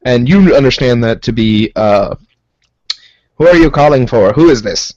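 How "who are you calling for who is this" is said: goblin voice. Acted. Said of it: "made the Rhodian guy have the same voice as the goblins".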